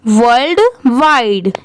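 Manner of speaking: वर्ल्ड वाइड as two distinct, spaced words; separated word reading. Shown as a demonstration. Teacher repeating the joined word for learners, वर्ल्ड वाइड spaced out. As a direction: give वर्ल्ड, then वाइड, each on its own. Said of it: "अब दोनों साथ में मिला देंगे".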